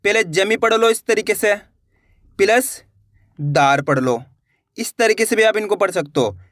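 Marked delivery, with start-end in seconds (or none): 0.2-0.6 जमी read as one separate chunk; two-letter chunk. Shown as a demonstration. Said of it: "दो-दो करके पढ़ लो". 3.4-3.8 दार as a separate, lower second chunk; two-letter chunk. Shown as a demonstration. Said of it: "दो-दो करके पढ़ लो".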